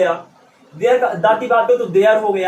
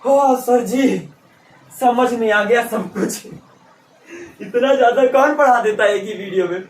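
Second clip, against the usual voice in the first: mock student. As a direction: play an amused student thanking the teacher. (हँसता हुआ छात्र)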